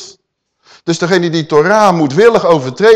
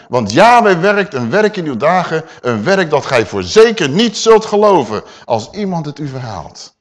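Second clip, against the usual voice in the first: forceful scripture preaching; 4 dB louder than usual. Acted. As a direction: proclaim it to the scorners. Repeats the scripture proclaiming. (luid verkondigend preken)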